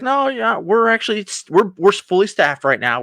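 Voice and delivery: high, sing-song brush-off; mock polite refusal. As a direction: turn him down in a squeaky nice voice. Star-Lord politely turns him down.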